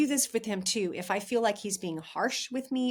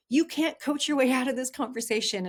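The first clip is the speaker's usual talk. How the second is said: firm, louder call-out with an edge; husband calling me out; 5 semitones higher, 5 dB louder than usual. Retold or imitated. Husband calls wife out mid-argument, firm and louder. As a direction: shut down her coaching, sharply. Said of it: "He was like".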